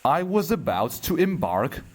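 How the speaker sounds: measured poem reading with long pauses between lines; poetry recitation. Acted. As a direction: recite it line by line, unhurried.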